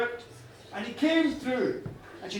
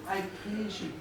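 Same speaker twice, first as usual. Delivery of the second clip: gentle, earnest praise of the dead; understated heartfelt gratitude; grateful thanks. Acted. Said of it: "he thanked them too".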